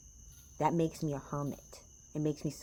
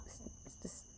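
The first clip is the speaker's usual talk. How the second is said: hushing; 16 dB quieter than usual. Real, not acted. Hushing mid-rant.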